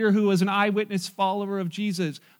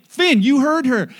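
slow, loud, higher mock reprimand; scolding sibling; 6 semitones higher, 8 dB louder, slower than usual. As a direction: imitate a bossy older child backing up Grandma. Second sibling scolds the brother.

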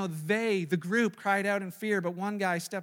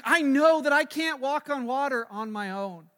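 doubting inner voice; 4 semitones higher, 6 dB louder than usual. Retold or imitated. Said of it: "He's probably thinking".

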